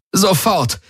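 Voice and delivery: mild shaken shout into the comm; trembling call. Acted. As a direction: snap it out, shaken. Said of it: "rief sie mit zitternder Stimme".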